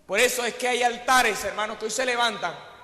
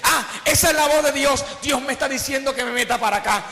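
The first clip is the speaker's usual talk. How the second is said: recognizing God's voice. Retold or imitated. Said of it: "Y tú dices".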